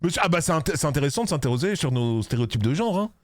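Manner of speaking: put-on high, affronted English aristocrat accent; prim English noble protesting. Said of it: "avec son accent aristocrate anglais".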